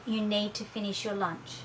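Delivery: firm but unruffled, no reaction; calm, even voice. Shown as a demonstration. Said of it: "a very calm, even voice".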